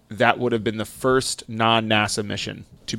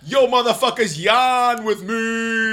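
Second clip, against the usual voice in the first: higher, slow, drawn-out yawn-along call; goofy high call; 11 semitones higher, slower than usual. Pretend. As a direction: call everyone out, stretching the yawn. Calling out to yawn.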